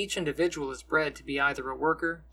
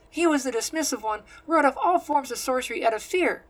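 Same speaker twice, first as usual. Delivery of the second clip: higher, louder angry scolding; 10 semitones higher, 4 dB louder than usual. A narrator's reading. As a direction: scold him sharply in her higher voice. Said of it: "she scolds".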